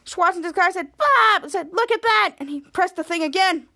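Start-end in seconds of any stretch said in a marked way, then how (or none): 1.0-1.4 loud high shout of a name; calling out. Retold or imitated. Character calls out. 1.7-2.4 high, loud look-at-that; excited exclaim. Retold or imitated. Character excited.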